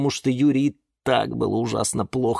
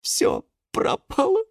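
slow, high lament; despair. A narrator's reading. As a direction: draw it out in despair. Юра в отчаянии. (протяжно, с отчаянием)

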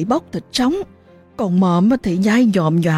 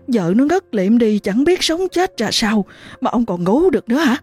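fast, higher, urgent rebuke; frantic scolding; 4 semitones higher, faster than usual. Acted. Wife waking her sleeping husband, fast frantic scolding. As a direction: hurry him up, angry and scared.

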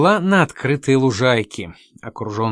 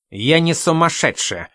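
lightly voiced squeaky protest, a bit higher; 4 semitones higher than usual. Miss Spine protests from the window, lightly squeaky. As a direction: squeak out the denial. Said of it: "послышался писклявый голос".

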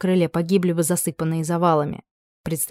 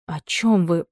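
plain reading voice

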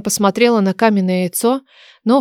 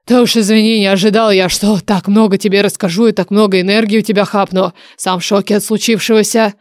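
lightly voiced oracle, slightly firmer than narration; a hint of a dragon oracle; apologetic dragon oracle. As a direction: apologize as an ancient voice in someone's head.

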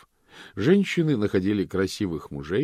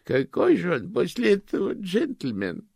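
sad; 12 semitones higher, 4 dB louder than usual. Acted. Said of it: "заметила тётя с грустью".

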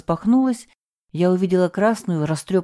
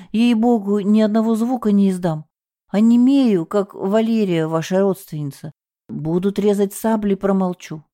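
frightened; 4 semitones higher than usual. Acted. Scared vow of silence.

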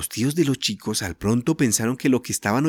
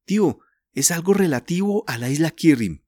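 vehement; 6 semitones higher than usual. A narrator's reading. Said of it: "dijo Julián vehementemente".

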